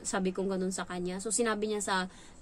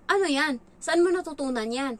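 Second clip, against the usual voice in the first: louder, higher angry demand; angry father; 6 semitones higher, 5 dB louder than usual. Retold or imitated. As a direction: snap at the child in anger. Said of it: "Grabe, nagalit yung amo kong lalaki".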